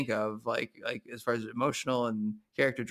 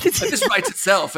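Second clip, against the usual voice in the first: laughing; 8 semitones higher, 10 dB louder than usual. Real, not acted. Joking about lazy writers' room.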